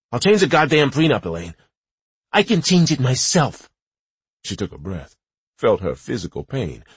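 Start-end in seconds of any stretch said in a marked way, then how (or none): 0.1-3.7 loud bargaining. Acted. Husband yells bargaining.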